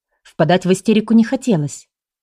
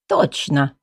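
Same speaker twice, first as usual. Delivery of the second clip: snooty bored cat; 3 semitones lower, slower than usual. Acted. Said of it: "фыркнул кот".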